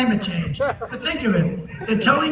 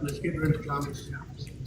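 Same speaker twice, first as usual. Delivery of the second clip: mock scheming; 6 semitones lower, 10 dB quieter than usual. Mocking opponents.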